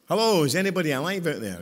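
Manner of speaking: loud, fast teasing call; playful loud shout to the pews. Real, not acted. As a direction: rouse a sleepy crowd. Teasing a quiet congregation.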